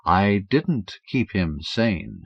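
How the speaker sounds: slow, quiet menacing voice; calm menacing villain. Acted. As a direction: say it slowly and coldly. Lafitte's voice.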